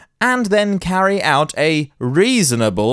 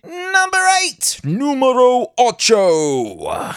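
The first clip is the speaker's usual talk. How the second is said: high announcer voice; 10 semitones higher, slower than usual. Acted. Announcing next story number.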